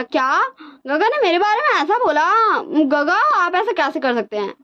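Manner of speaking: high, indignant little-brother squeal; mock outraged surprise. Younger brother protesting to his brother, mock shocked. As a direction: act wounded that big brother said that.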